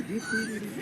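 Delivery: very high squeaky beeps; clown honk. Pretend. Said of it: "I'll be a clown too".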